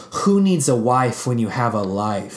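slow, deliberate quoted zinger; delivered one-liner. Retold or imitated. Quoting Richard's one-liner to co-hosts, slow and deliberate. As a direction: lay the line out slowly. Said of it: "one really great one-liner".

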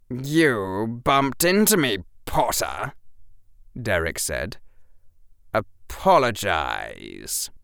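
slow, lightly voiced menacing older boy; a hint of a bullying teen. A narrator's reading. Derek demands an apology from Harry, slow and menacing. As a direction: lean on him with slow menace.

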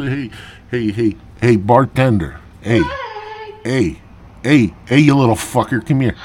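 loud barroom shout at the bartender; hollering across the bar to get served; calling out. Retold or imitated. Yelling to the bartender over the noise, loud and rough.

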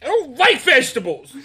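a lightly voiced whiny kid; mock a fussy child; childish whine.

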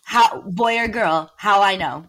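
lightly voiced confused figure; mock confused voice. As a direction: ham up a baffled character. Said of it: "A whole bit being like".

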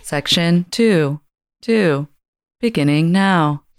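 recorded train-announcer cadence, pausing between phrases; transportation lady. Shown as a demonstration. Co-host announces the podcast section, transportation lady voice. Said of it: "Transportation lady voice".

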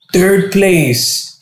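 high, drawn-out award call; announcer call. Retold or imitated. Host announces third place, high and drawn out. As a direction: announce it to the crowd. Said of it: "they're like".

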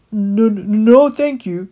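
a nervous rat stumbling over refusal; tight with emotion. Acted. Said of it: "The rat's voice was tight with emotion".

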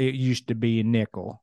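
lightly put-on Southern accent; mock-Southern old-timer tone. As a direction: finish the tale with a Southern twang. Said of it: "That was my Southern accent".

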